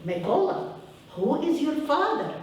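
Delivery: put-on teacher in Ukrainian accent. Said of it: "I'll say it with my accent".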